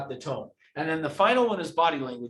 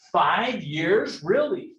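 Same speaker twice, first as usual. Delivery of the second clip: excited surprise; 3 dB louder, much slower than usual. Shown as a demonstration. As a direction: show real interest.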